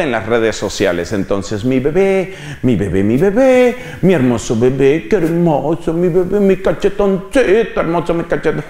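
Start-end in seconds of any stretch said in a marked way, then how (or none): 1.6-8.6 imitating doting mother. Mother shows baby online.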